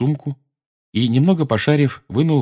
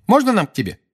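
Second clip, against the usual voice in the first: put-on friendly girl; 12 semitones higher, 3 dB louder, faster than usual. Ginny voiced, high.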